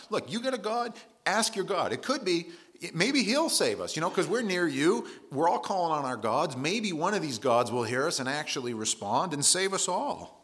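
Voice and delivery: rising into a high, loud plea to wake up; a desperate captain shaking a sleeper awake; urgent ship captain. Retold or imitated. Captain to sleeping Jonah in the storm, high, loud and urgent. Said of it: "the captain comes to him and says to him".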